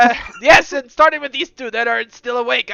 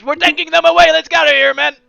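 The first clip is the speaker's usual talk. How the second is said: calling out; 7 semitones higher, 10 dB louder, faster than usual. Acted. Officer calls out to men.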